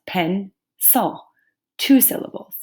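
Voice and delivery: PENCIL broken in two with a gap between syllables; two separate parts. Shown as a demonstration. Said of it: "I say it in two separate parts".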